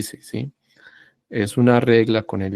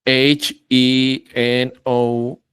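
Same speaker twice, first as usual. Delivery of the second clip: wrong spelling; much slower than usual. Shown as a demonstration.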